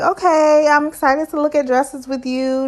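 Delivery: upbeat. Retold or imitated. Friend greeting the bride at dress shopping, upbeat. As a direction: pitch it up like a peppy friend. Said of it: "giving energy".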